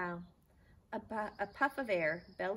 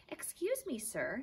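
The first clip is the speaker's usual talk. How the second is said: Stuart; 7 semitones higher than usual. Acted. Stuart voiced politely.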